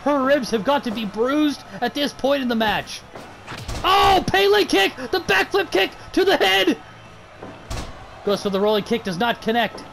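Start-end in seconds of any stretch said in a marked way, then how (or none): 3.8-6.8 excited. Real, not acted. Commentator calls a big move.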